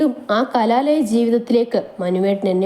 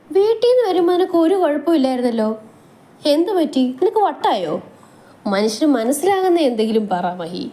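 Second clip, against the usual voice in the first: higher, mock-puzzled husband; teasing husband; 5 semitones higher than usual. Manu mocks Mahi's sunset musings, higher and teasing. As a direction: tease her for her dreamy talk.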